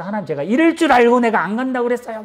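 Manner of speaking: mild whiny protest; lightly voiced Jonah. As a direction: play Jonah grumbling at God, lightly. Jonah complaining to God.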